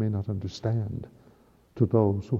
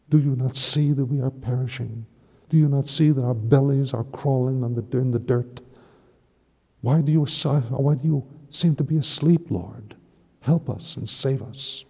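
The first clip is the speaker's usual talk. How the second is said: higher, urgent pleading to a sleeping Lord; pleading cry; 4 semitones higher than usual. Acted. Priest voicing perishing disciples, pleading. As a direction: beg him to wake up and help.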